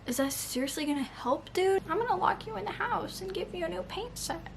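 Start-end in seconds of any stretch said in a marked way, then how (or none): 1.9-4.5 higher, mocking voice of a clueless boyfriend; mock Tamlin offering a paint set. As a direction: parody him as a smug oblivious guy. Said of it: "he's like".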